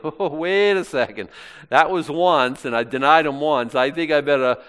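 loud, hasty second thought; urgent protest. Acted. Preacher voicing Peter when the cock crows, urgent protest. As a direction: blurt it out, pulling yourself up short. Imagines Peter reacting to the crow.

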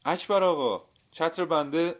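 high, loud, worried call; anxious asking. A narrator's reading. Man asking the butcher about his lost umbrella, anxious. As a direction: ask urgently, full of unease. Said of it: "با دلشوره پرسید".

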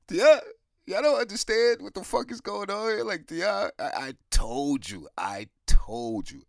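shouting high and loud, fed up; high exasperated yell. Retold or imitated. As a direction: yell it at them in disbelief. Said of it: "I'm like".

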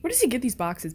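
soft whisper; hushed aside. Real, not acted. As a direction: breathe it out. Whispering during tense scene.

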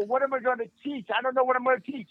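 retold nerves. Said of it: "the most nervous I ever been".

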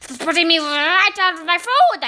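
loud, slow, drawn-out witch rant; screamed witch tirade. A narrator's reading. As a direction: spit out each word in loud disgust. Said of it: "she screamed".

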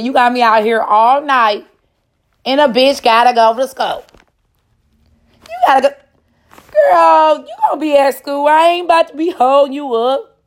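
animated, insistent griping; loud protest. Acted. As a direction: push it up high and loud, fussing. Acted protest about going to school.

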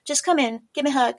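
Southern Belle. Acted. Showing friends a character voice, Southern Belle accent. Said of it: "That's sort of Southern Belle".

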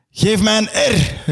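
high, slow call; rallying call. Acted. Yoshi calls for an R, high slow call. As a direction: sing out the letter high. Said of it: "roep ik".

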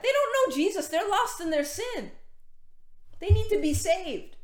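pitched high, urgent plea; fervent high preaching voice; impassioned preaching. Real, not acted. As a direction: plead for the lost.

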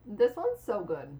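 talking while chewing; words round a mouthful of cookie; mouth full. Real, not acted. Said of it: "I'm gonna talk with my mouth full".

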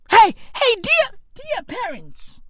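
high, fussy announcer calling out hey, hey; a put-on high voice hailing dear parents; mock formal greeting. Comic addressing South African parents in a mock-posh voice.

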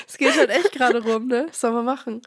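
talking with a blocked nose; a cold, nose all stuffed up; stuffy nose. Real, not acted. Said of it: "so eine verschnupfte Stimme".

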